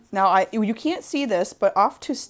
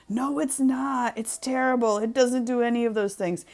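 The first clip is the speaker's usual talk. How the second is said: higher-pitched imitated reviewer protest; mock complaining; 6 semitones higher than usual. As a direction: contradict like a fed-up customer. Voicing angry online reviewers.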